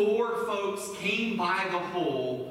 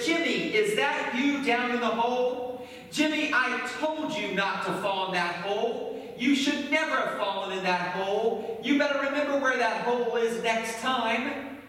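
lightly acted telling-off; scolding neighbor; 4 semitones higher than usual. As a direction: chide a neighbor who fell in a hole. Neighbor scolds man in hole.

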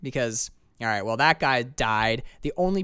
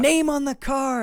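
high mock Bernie lament; 13 semitones higher, 5 dB louder than usual. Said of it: "Bernie does his whole".

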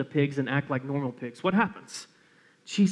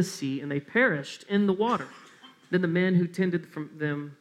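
solemn reading of scripture; 2 semitones lower than usual. Acted.

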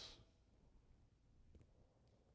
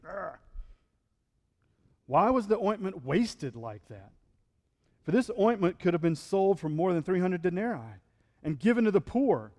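indignant grumble; 2 semitones higher than usual. Retold or imitated. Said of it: "said to themselves indignantly".

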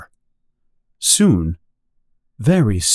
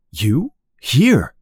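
cried out in surprise; 4 semitones higher than usual. A narrator's reading. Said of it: "Winston cried out in surprise".

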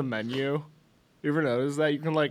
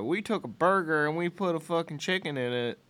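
higher-pitched mock Southern accent; 4 semitones higher than usual. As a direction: put on a hick Southern accent. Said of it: "I don't know why we do Southern accents".

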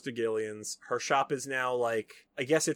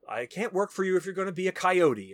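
higher-pitched mock outburst; retold upset protest; 6 semitones higher, 4 dB louder than usual. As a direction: protest as if quitting in a huff. Retold quarrel, she quits and leaves.

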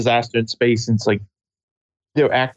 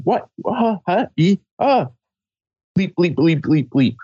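panicked freakout; 7 semitones higher than usual. Retold or imitated. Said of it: "there's no screaming".

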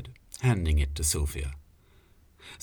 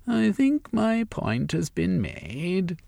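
slow, raised, self-satisfied declaration; declaring; 12 semitones higher, slower than usual. Acted. Sylvia declaring victory to her colleagues, slow and high. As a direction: announce your win to the room. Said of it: "she declared".

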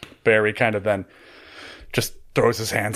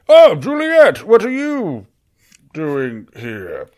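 high, loud theatrical exclamation that drops away; hammed-up surprise; 8 semitones higher, 6 dB louder, slower than usual. Barry performing for onlookers as Juliet enters, hammed-up surprise. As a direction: feign astonishment in a high voice, then sink.

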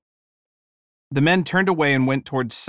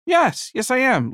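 Liz voiced high; 10 semitones higher than usual. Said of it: "Liz said".

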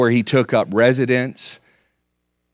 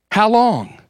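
pleading cry; 6 semitones higher than usual. Acted. Psalm 90 plea.

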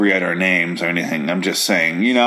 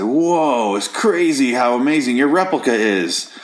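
mock marveling Sam; 4 semitones higher than usual. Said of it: "he's just like".

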